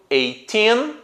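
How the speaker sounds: put-on eighteen with a long, stressed "teen"; "eighteen" held on teen. Shown as a demonstration. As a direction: lean on the last syllable of "eighteen". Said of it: "com o teen na sílaba mais forte".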